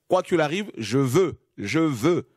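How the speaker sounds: «je veux» leaned on, stubborn and insistent; stressed stubborn words. Shown as a demonstration. Preacher underlines Achimaat's stubborn «je veux», pressing hard. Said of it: "Notez bien, hein".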